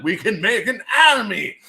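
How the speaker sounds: high, loud put-on plotter voice; mock scheming cloners. Imagined DNA lab plotting clones, mock scheming voice. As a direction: ham it up as a cartoon schemer.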